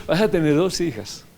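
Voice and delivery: repeating the promise through a laugh; a laughing, happy retelling of the prophecy. Retold or imitated. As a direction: say it again, chuckling with joy. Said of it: "Así le dije".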